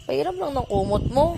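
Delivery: pretend crying. Mother fake-cries for blanket.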